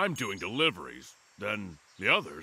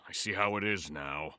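quiet, hurt and near tears; tearful; 3 semitones lower, 5 dB quieter than usual. Acted. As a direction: swallow the hurt. Hurt, sent away again.

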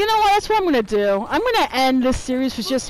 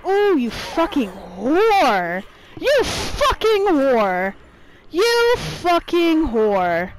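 drawn-out cursing; 5 semitones higher, slower than usual. Real, not acted. Gamer cursing an opponent, words stretched.

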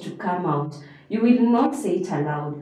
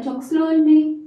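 drawn-out, higher "slowly"; 7 semitones higher, 3 dB louder than usual. Shown as a demonstration. Teacher repeating the choice of pace, slowly. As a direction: linger on the words to show slowness. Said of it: "increase the pace faster".

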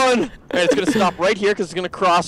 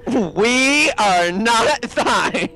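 mock protest; 3 semitones higher, much slower than usual. Partner answers, drawn out.

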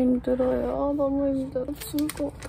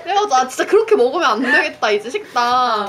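talking through a face mask; 3 semitones higher, 8 dB louder, faster than usual. Real, not acted. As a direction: voice muffled by mask. Seen 1: speaker wears face mask throughout; reference frames show unmasked face.

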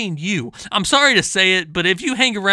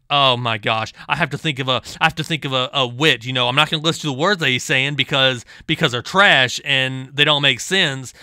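much lower, dopey mimic of his thinking; mocking impression; 6 semitones lower than usual. Mimicking the opponent's thoughts.

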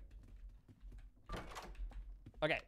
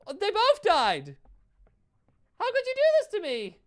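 crying with rage; 14 semitones higher, 7 dB louder than usual. Real, not acted. Teammates die, she wails.

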